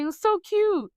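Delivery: high-pitched mock gushing; imitated girlish "aww" delight; cooing. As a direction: coo over something adorable. Acting out Billy seeing childhood photo.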